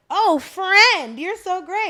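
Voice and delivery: high, loud fawning mock voice; gushing friend. Friend mocking a fawning friend, high gushing voice. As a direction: gush like a fake-sweet friend.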